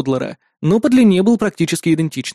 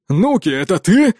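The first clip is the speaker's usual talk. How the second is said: surprised; 3 semitones higher than usual. A narrator's reading. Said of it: "звучал настолько удивлённо".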